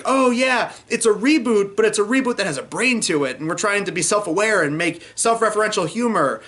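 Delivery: mock enthusiasm. Critic mimicking the trailer's self-aware pitch, mock enthusiasm.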